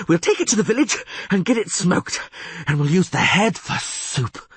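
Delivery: put-on high, eager, excitable young bard; excited bard voice. Dandelion marvels at the huge catfish, high and excited.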